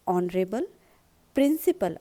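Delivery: ऑनरेबल plainly, then a punched प्रिंसिपल; stress on प्रिंसिपल. Shown as a demonstration. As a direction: lean hard on प्रिंसिपल. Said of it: "आपको यहाँ जोर देना है प्रिंसिपल पे".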